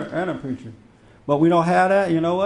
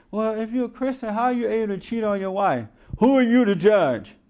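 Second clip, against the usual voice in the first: slightly raised, indignant retort; mock churchgoer; 5 semitones higher than usual. Churchgoers answering a critic of a Christian, mock indignation. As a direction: put on a challenging churchgoer. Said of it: "That's what they'll say".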